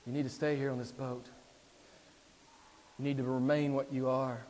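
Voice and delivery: measured, subdued persuasion after a long pause; Satan coaxing. Acted. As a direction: urge him gently, holding back the force. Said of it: "Satan says".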